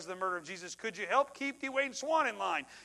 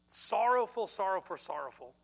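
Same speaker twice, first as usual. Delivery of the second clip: sorrowful, loud then fading to a hush; fading repetition; 3 dB louder than usual. Acted. Preacher stressing grief to congregation, fading. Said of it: "repeated word fading away".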